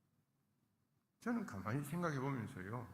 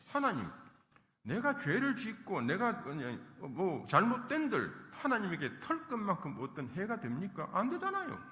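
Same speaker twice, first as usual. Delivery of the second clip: louder, challenging cry at God; defiant complaint; 4 semitones higher, 5 dB louder than usual. Retold or imitated. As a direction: hurl the complaint upward in protest. 욥의 원망을 흉내냄. (하나님께 대드는 항변조)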